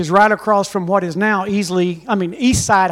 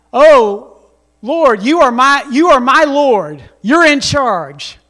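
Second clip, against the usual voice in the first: mock devotion; 3 semitones higher, 5 dB louder, slower than usual. Mock pious declaration.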